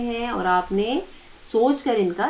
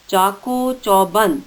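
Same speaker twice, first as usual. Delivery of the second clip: slow careful dictation. Shown as a demonstration. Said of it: "ان املا کے الفاظ کو غور سے پڑھیں".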